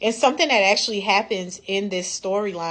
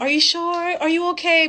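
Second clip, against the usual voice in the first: much higher, fussing mother voice; mock smothering mom; 11 semitones higher, 4 dB louder than usual. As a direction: overdo the hovering mama check-in. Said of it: "are you his mama".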